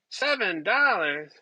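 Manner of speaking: the price echoed back in mock disbelief; half-laughing outrage at the price; incredulous repeat. Repeating the egg price in mock disbelief, incredulous.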